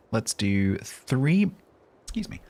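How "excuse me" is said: choking on an inhaled fly; just swallowed a bug. Real, not acted. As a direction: cough through a swallowed bug. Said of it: "I think I inhaled a fly".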